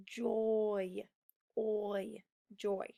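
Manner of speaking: joy, then oi alone, then joy again; sound it out. Shown as a demonstration. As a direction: split joy to show the oi at its end. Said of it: "at the end of the word".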